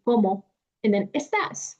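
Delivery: "cómo" then a break then "estás"; pause between words. Shown as a demonstration. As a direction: split the phrase in two. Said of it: "making a pause between".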